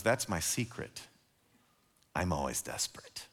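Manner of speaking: hushed whisper. Acted. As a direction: drop to a near whisper, barely voiced. Same line redone as confession.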